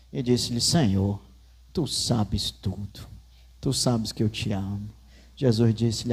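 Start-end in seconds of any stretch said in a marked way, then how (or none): 0.6-4.9 lower, softer and slower, heavy with sorrow; grieved reply. Acted. Peter answering Jesus for the third time, lower and sadder. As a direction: answer as a hurt friend.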